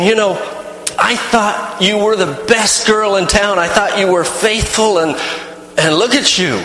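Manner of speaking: understated accusing tone; mild mock argument. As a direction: scold her like a betrayed fiancé. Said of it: "I heard them arguing".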